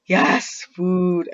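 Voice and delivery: put-on hungry girl shouting for food; yell. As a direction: cheer at finding food. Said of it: "I yell".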